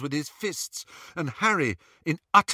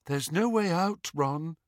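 Luna voice; 4 semitones higher than usual. Acted. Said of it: "said Luna".

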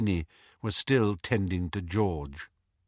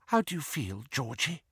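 soft, higher, hushed question; tender whisper; 3 semitones higher, 6 dB quieter than usual. A narrator's reading. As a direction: whisper gently to an injured son. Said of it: "whispered Missus Weasley".

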